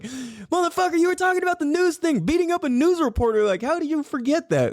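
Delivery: high, fast mock outraged listener; squeaky pretend heckler yelling at the radio; hammed-up high scolding voice. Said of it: "You guys are probably screaming it at the".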